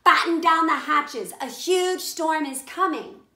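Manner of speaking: loud, high, urgent warning; cried out. Acted. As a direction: shout the warning to the whole crew. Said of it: "Finally, he cried".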